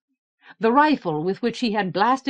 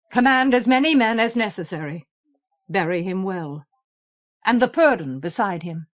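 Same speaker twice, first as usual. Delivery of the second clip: brisk. Acted. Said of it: "he addressed Norge briskly".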